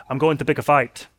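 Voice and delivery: attempted Scottish accent, quick. William Wallace answering before battle, in an attempted Scottish accent. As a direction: imitate a film hero's Scottish accent. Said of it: "really good Scottish accent".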